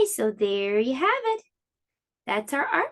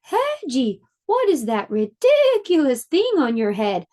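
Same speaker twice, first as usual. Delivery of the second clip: scornful pony; 5 dB louder than usual. Acted. Pony mocking Hedgie's hat, scoffing and louder. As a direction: scoff at him like a rude pony. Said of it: "The pony snorted at Hedgie".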